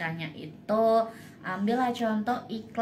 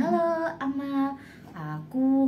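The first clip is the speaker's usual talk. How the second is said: bright sing-song greeting, pitch higher; lively varied intonation; 5 semitones higher, slower than usual. Shown as a demonstration. Demo for listeners of lively intonation, varied pitch. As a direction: show how lively intonation sounds. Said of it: "intonasinya enak gitu".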